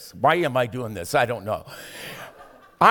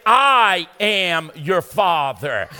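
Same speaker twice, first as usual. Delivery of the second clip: voice of God; 5 dB louder, much slower than usual. Acted. God speaking to the preacher.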